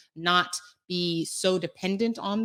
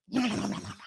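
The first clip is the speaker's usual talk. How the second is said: higher-pitched playful nom-nom chomping; mock munching; 4 semitones higher, much faster than usual. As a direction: imitate greedily gobbling snacks. Repeats munching imitation when asked.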